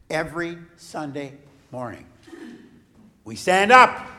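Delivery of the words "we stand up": rallying call. Real, not acted. Rallying children to stand.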